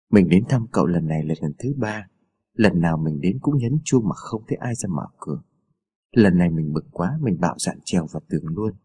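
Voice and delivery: a hint of a hurt boy explaining; mildly voiced boy, a touch sulky; young boy. Boy Đậu Nành voiced.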